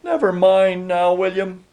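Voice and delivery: high-pitched, gentle reassurance; wife gently cutting off an apology. A narrator's reading. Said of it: "she said gently".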